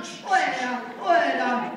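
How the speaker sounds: loud shooing shout; shouting get out. Acted. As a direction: chase him off, loud. Shooing someone away.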